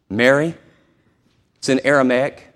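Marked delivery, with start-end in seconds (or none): 0.1-0.5 tender voice. Acted. Jesus calling to grieving Mary, tender. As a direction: say her name like a caress. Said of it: "Tender voice".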